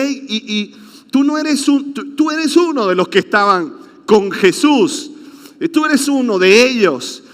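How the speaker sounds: put-on mild accusing girl's voice; accusing servant girl. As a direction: call him out as one of them.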